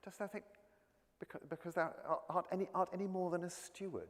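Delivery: mock him as the drunken Toby; a lightly voiced Toby taunting the steward; Toby's sneer. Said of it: "he comes in and says".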